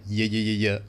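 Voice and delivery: "yeah" as a repeated Y syllable, no V; southern Y sounds. Shown as a demonstration. Showing the family's Southern dialect, "yeah" as bare Y sounds. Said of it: "no V sounds even, all, like".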